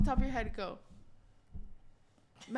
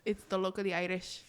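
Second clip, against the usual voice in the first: put-on softer, timid Irish accent; 3 semitones lower, 5 dB quieter than usual. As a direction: say it shyly with an Irish lilt. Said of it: "in an Irish accent".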